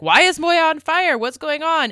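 freaked-out outburst, voice jumping up; flipping out. Retold or imitated. Retelling John flipping out over the burning ship, high frantic demand. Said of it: "like, flipping out and he's like".

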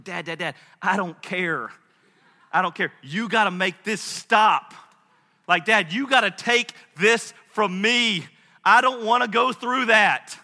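building from an urgent plea to a loud, high protest; pleading child. Retold or imitated. Scared son begs his father.

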